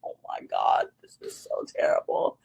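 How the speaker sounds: hushed "oh my God" in a dark theater; whispered dismay. Retold or imitated. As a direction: whisper it so no one hears. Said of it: "I'm like".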